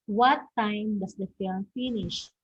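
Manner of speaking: "what time does the film finish" settling down on "finish"; falling intonation. Shown as a demonstration. Teacher giving a second WH question, falling on "finish". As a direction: let "finish" fall, no lift. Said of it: "that is also a falling intonation".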